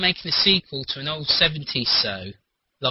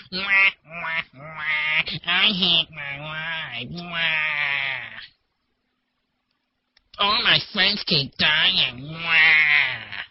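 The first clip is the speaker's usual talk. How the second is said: slow, put-on whining emo hero; whiny voice; much slower than usual. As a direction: whine and sob like a mopey teen. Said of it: "You've made him do a whiny voice".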